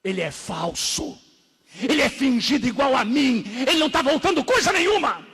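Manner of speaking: high accusing shout, dipping once then climbing; loud shout. Retold or imitated. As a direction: cry out the accusation as the demon did. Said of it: "e gritou bem alto".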